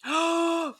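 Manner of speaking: a sharp shocked intake of breath; a quick shocked gasp. Real, not acted. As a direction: gasp at the news. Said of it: "We all, like, gasped".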